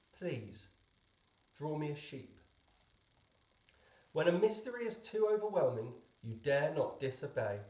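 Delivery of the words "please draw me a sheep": put-on a small child asking gently and gravely; soft and serious. A narrator's reading. Little prince repeating his request, very soft and serious. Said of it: "very softly, in all seriousness".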